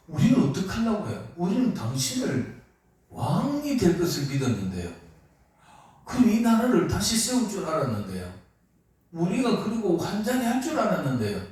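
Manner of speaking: a hint of a let-down follower's whine; Peter complaining. Peter voiced complaining to Jesus. (예수님께 따지는 베드로, 살짝 높은 푸념조)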